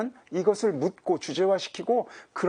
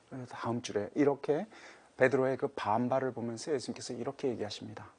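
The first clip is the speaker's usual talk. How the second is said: ordinary delivery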